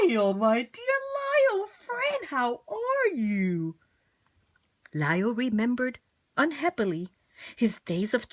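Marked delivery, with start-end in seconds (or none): 0.0-3.8 high, tearful delighted greeting; emotional reunion cry; overjoyed showman greeting. Acted. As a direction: greet an old friend with a sob of joy. Valenti greets Lyle.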